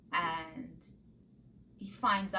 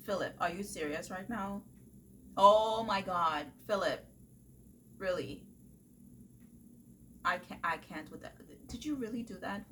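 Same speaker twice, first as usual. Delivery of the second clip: a touch of disbelief, near the usual voice; lightly retold fed-up reader; milder exasperation. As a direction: grumble at the book half to yourself. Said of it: "I was reading this book and I'm like".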